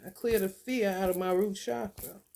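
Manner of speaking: calm, steady mantra; affirmation. Shown as a demonstration. Guiding viewers through a chakra affirmation, calm. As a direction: state it like a chant. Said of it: "This is what you're gonna be saying".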